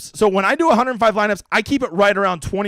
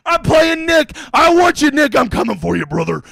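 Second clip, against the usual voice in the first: loud, high, challenging shout; wrestling promo callout; 7 semitones higher, 4 dB louder than usual. Acted. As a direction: call him out like a wrestler. Calling out a rival.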